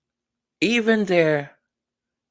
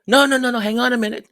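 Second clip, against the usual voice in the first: louder, higher hurried correction; mock panicked backpedal; 4 semitones higher, 5 dB louder, faster than usual. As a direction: call it back in a fluster. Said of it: "A couple of days later".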